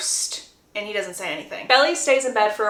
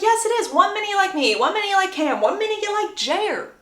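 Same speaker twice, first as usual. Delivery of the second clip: higher, sing-song accusatory list; mock accusing; 9 semitones higher than usual. Boy listing her changing crushes, mock accusing. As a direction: lightly act out an exasperated accusation, pitched up.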